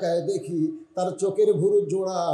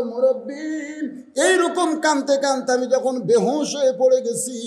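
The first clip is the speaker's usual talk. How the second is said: tearful telling; 9 semitones higher, 5 dB louder than usual. Acted. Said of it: "মেয়েটা কান্দার বলে".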